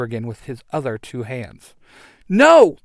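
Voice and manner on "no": high, loud cry of protest; alarmed yell. A narrator's reading. White Ranger seeing his leader beaten, high alarmed yell. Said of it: "the White Ranger yells".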